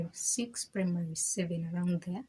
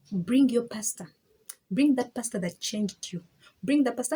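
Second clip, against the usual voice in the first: imitating angry dad; 3 semitones higher, 4 dB louder than usual. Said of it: "My dad was mad".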